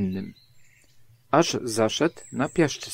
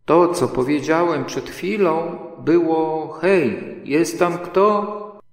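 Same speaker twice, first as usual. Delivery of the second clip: higher and louder, repeating himself slowly; 6 semitones higher, 4 dB louder, slower than usual. Acted. Pooh repeating his call into the hole, loudly. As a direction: shout it again so he hears. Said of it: "zawołał Puchatek donośnym głosem".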